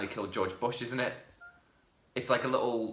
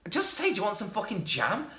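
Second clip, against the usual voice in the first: higher, exasperated demand; mock frustration at the film; 9 semitones higher than usual. Griping to a friend about the film, exasperated. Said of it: "And you go like".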